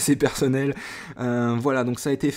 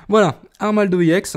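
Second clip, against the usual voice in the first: excited; 7 semitones higher, 7 dB louder than usual. Real, not acted. Revealing the card.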